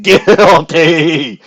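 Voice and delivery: loud declaring shout. Acted. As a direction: proclaim it loudly. The verdict shouted after muttering.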